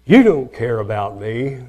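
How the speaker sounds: mock hurt spouse accusing a partner; hurt accusation. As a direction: throw the blame like a hurt spouse. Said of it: "hurtful accusations such as".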